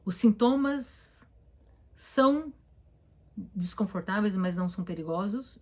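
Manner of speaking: slow, spaced words, each one placed with care; slow calming self-talk. Shown as a demonstration. Therapist models a calming sentence for anxious patients, slow and deliberate. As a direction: spell out the reassurance slowly and deliberately. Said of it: "frases do tipo".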